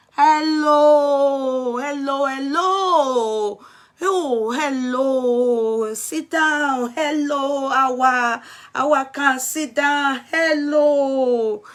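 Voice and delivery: long, stretched-out hellos; drawn-out greeting. Real, not acted. Streamer welcoming arriving viewers, drawn-out greeting. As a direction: welcome them in with lengthened vowels.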